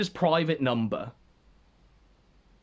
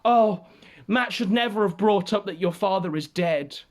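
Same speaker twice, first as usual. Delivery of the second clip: mock concern. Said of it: "moral fagging, concern trolling".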